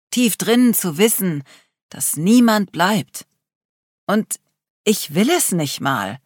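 put-on a young man finally admits he feels nothing; anguished confession. Adrian's emotional confession.

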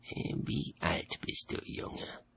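slow, soft kindly question; friendly question. A narrator's reading. The old wizard kindly asks the boy his age. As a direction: ask the boy gently, a touch of kindness. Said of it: "fragte Albert freundlich".

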